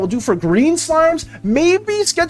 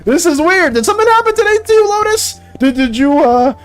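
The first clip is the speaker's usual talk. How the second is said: playful fake shock, louder and higher; hammed-up disbelief at a kind comment; teasing a chatter with mock astonishment; mock surprise; 4 semitones higher, 3 dB louder than usual. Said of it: "I'm, I'm confused".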